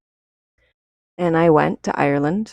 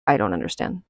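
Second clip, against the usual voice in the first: baffled murmur; 9 semitones lower, 5 dB quieter, faster than usual. Retold or imitated. Retelling her bewilderment that night.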